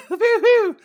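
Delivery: high laughing woo-hoo; laughing cheer. Real, not acted.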